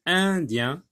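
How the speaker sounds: indien split into two parts, un and dien; syllable by syllable. Shown as a demonstration. Teacher showing pupils how to split words, syllable by syllable. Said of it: "Sépare les mots en syllabes".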